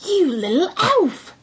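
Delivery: hushed, slow whisper; thieves whispering. A narrator's reading. Thieves whisper to tiny Tom, slow and hushed. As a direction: whisper it to the little fellow.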